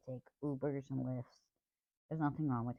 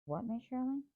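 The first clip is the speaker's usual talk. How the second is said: exasperated reply; 11 semitones higher than usual. Retold or imitated. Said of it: "I'm like".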